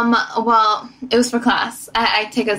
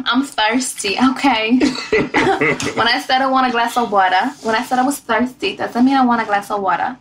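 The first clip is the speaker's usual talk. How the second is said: put-on New York accent. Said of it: "my New York one".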